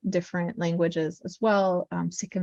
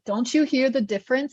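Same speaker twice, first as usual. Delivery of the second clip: higher-pitched retold question from a husband; imitated insistent husband; 5 semitones higher than usual. Husband asking learner about sounds, mildly incredulous. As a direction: lightly mimic a husband's disbelief. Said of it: "my husband would be like".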